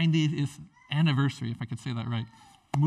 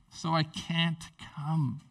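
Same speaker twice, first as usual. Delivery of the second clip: slow dismissive excuse; 3 dB quieter, much slower than usual. Retold or imitated. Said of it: "that would be rude".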